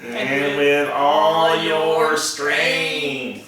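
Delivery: very slow, mechanical alien drone; robot alien voice. Pretend. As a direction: chant it like a robot from space. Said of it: "how about we do it in a robot alien voice".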